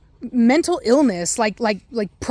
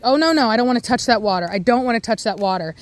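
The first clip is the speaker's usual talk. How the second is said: put-on scared child; faster than usual. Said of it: "that child is scared of the water and is like".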